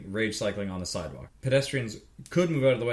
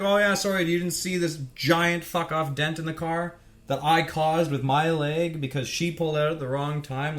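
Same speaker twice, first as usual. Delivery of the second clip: higher-pitched mock apology; sarcastic retort; 4 semitones higher than usual. Cyclist answering honking drivers, sarcastic raised-pitch retort. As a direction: throw a sarcastic sorry back at them.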